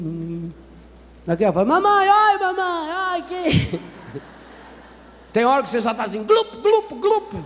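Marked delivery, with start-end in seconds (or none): 1.7-3.8 put-on high, frightened child-like wailing; a mock drowning cry, pitched high; panicked cry for mother. Drowning person cries for mother. 6.2-7.3 high comic glug sounds of going under; playful sinking gulps; mock drowning gurgle.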